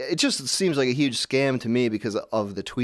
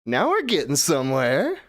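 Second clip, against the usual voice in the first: raised, put-on delight; mock pleased user; 5 semitones higher, slower than usual. User hearing the revised beat, mock-impressed. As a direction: play an easily impressed amateur. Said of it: "And it's like".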